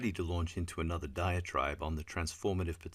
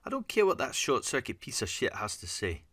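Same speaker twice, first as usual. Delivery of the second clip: high, raised furious voice; angry outburst; 7 semitones higher, 4 dB louder than usual. A narrator's reading. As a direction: lash out in fury at the machine. Fiona's angry outburst continues.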